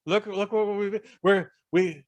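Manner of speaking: imitated high-pitched wheedling manager; high Colonel voice. Manager pleading with a singer about leaving the country, high mock voice. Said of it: "he does have a high voice where he goes".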